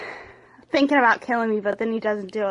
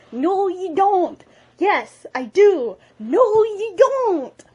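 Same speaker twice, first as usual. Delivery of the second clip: higher and louder with each retort; escalating squabble; 7 semitones higher, 7 dB louder, slower than usual. Acted. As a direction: bicker like a child, building up.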